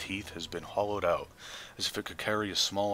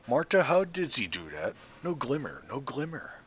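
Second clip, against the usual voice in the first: crone mumbling to herself; 6 semitones higher than usual. Acted. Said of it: "she mumbles to herself".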